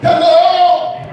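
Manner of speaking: high, hammed-up Indian-accented hello; worse Indian accent. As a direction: call out in an overdone mock Indian accent. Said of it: "make your accent worse than their accent".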